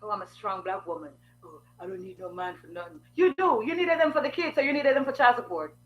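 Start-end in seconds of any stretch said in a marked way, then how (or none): 0.1-3.0 mocking boast.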